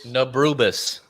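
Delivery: Nabrubis repeated slowly and clearly; Nabrubis, said again for the guesser; backwards speech. Shown as a demonstration. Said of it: "I'm gonna say it backwards".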